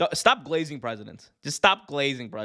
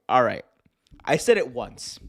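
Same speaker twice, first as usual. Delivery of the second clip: ordinary talk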